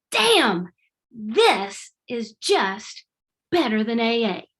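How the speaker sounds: slap the table and blurt it out; a feisty old lady's mock outburst; blunt exclamation. Old lady slaps table, exclaims.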